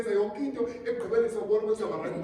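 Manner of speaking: loud, fast Xhosa rant; mock rant. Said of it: "I wanna come and say".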